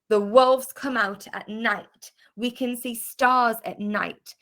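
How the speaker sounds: "night" slowly and clearly at the end; slow model sentences. Shown as a demonstration. Teacher corrects Hasana, slow clear model sentences. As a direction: draw out each word, landing on "night". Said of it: "listen to the word I'm saying in the sentence".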